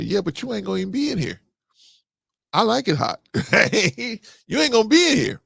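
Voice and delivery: high, rising retold protest climbing to a loud peak; mock-heated comeback to his wife about the fan; exasperated arguing.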